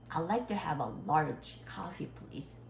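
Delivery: slow model order, r in "large", f in "coffee"; correct English pronunciation. Shown as a demonstration. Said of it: "say coffee. There is a two F". ("large coffee"를 r과 f를 살린 영어 발음으로)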